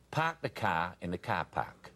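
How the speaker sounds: Boston accent drill phrase. Shown as a demonstration. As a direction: demonstrate a Boston accent, dropping the Rs. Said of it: "all day long, you just say".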